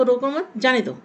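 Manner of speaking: रोको मत together, then stressed जाने दो; pause after मत. Shown as a demonstration. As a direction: break after मत, hit जाने. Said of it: "रोको मत के बाद अल्प विराम".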